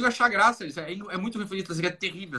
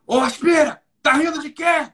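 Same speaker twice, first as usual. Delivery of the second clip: stern major; 8 semitones higher, 6 dB louder, slower than usual. Retold or imitated. Major yelling at laughing cadet.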